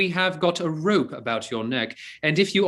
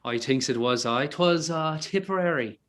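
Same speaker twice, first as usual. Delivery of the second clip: Irish brogue; 3 dB quieter than usual. Acted. Archer greeting the priest as his cousin, in a hearty Irish brogue. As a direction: greet him as a long-lost Irish cousin. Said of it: "His brogue will hang mine".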